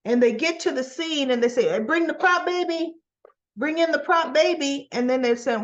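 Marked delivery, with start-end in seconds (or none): 1.7-4.9 higher-pitched mock crew call; lightly acted on-set request. Acted crew calling for a prop.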